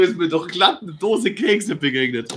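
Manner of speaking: talking through a mouthful of cookies; words round a bite of cookie; mouth full. Real, not acted. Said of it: "mit vollem Mund rede".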